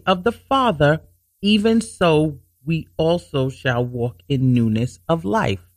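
slow, deliberate Bible reading; measured scripture recitation. Acted. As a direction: read the verse slowly and solemnly. Reads Romans aloud.

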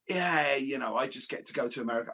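offhand, quickening throwaway remark. Retold or imitated. Downplaying his trips abroad to others, throwaway. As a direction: toss it off as if it were nothing. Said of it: "I use it as a throwaway thing".

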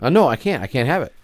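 talking while chewing; mouth full. Real, not acted. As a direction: speak round a mouthful. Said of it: "Mouth's full".

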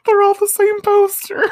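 helpless, high-pitched laughter through the words; laughing hard. Real, not acted. Telling co-host about the identical posters, laughing hard. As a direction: squeal it out while cracking up.

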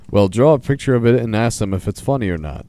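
loud, hammed-up bear voice; Polar Bear. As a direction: announce it loudly as a storybook bear. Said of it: "Do you wanna do Polar Bear's voice?".

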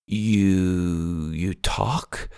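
soft, faltering stammer; a scared boy barely getting the words out; stuttering in shock. Acted. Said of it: "Ben stuttered".

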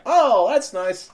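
high, slow, drawn-out mock disgust; sarcastic caller. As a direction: stretch it out like you're grossed out. Caller reacting to bathroom news.

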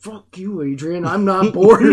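comic indignant outburst; mock angry retort. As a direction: play-act yelling back at the radio, breaking into laughter. Acting out retort to co-host's complaint.

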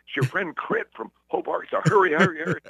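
high-pitched, urgent mom calling her son; urgent mother. Acted. Mother calling her son to a long-distance call, urgent. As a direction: hurry him along in a high mother's voice. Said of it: "mother answers the phone".

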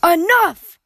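loud, high furious cry; angry shout. Acted. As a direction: make the whole room stop. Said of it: "she shouted".

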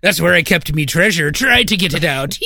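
lightly voiced pirate with a hint of laughter; playful pirate boasting; Canadian pirate. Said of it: "Canadian pirate Maplebeard".

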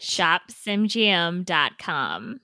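slow, deliberate website plug; slow announcer read. Shown as a demonstration. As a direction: spell the website out slowly like an ad. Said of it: "start announcing the stupid website".

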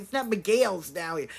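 lightly imitated country-sounding accent on "gals"; sister's country-sounding accent. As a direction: mimic the girls' country-like twang a little. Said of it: "where they get their accent from".

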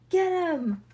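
loud high yell. Acted. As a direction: yell it in the chase. Kids chasing Juanito.

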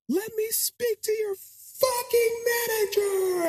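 slow, high, loud mocking demand; slow high enraged mock customer yelling for the manager; furious customer. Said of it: "And he is pissed".

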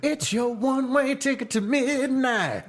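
high, loud rock hype shout. Pretend. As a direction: belt it like a metal announcer.

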